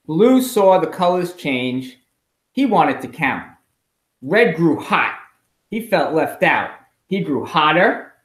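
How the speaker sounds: expressive storybook read-aloud for a class; reading to children. A narrator's reading. Teacher reading a picture book to her class, expressive. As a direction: read it like story time on the rug.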